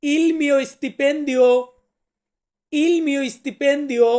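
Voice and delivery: il mio stipendio drawn out very slowly, syllable by syllable; slow model pronunciation. Shown as a demonstration. Teacher slowly modelling il mio stipendio for new students. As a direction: stretch il mio stipendio out for learners. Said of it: "আমরা ইতালিতে বলবো".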